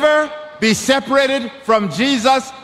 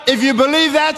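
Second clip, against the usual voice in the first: raised-pitch call to the congregation; rallying preacher; 4 semitones higher, faster than usual. Real, not acted. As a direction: lead up to a call for amen. Preacher calls for an amen.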